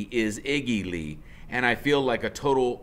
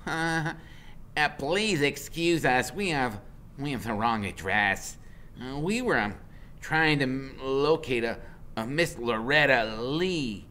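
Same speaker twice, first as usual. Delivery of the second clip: put-on nervous formal boy; 4 semitones higher than usual. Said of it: "Freak finally says".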